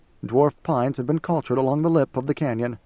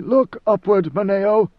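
sharp command; 6 semitones higher, 4 dB louder, slower than usual. Acted. Leto commands the servant.

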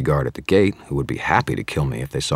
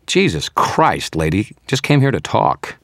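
loud, high startled cry; startled shout; 6 semitones higher, 5 dB louder than usual. Acted. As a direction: blurt it out in shock, slow on the name. Wizard shouts at vampire.

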